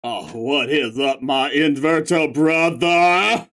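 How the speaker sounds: laid-back dude voice, dragged out; stoner voice. Acted. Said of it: "I can do stoner voice".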